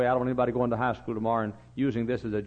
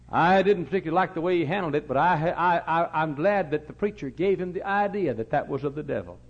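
laughing aside; 5 semitones higher, 5 dB louder than usual. Real, not acted. Laughing aside about child.

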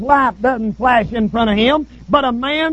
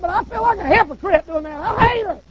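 higher, petulant complaint; mock-sulky higher plea to God; whiny Moses; 5 semitones higher than usual. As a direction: whine it like a fed-up pastor. Moses voiced whining to God.

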